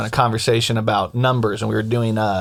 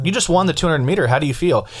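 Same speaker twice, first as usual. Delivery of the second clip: mock interview; 7 semitones higher than usual.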